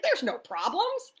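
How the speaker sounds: high, slow, airy sing-song; breezy quote. Retold or imitated. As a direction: toss it off lightly, like nothing's wrong. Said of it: "I was like".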